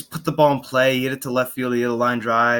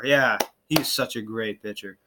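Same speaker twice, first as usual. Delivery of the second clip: slow, softer sarcastic praise; 5 dB quieter than usual. Real, not acted. Fan on a reliever's bad numbers, sarcastic. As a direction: praise him slowly, meaning the opposite. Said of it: "can you sense the sarcasm here?".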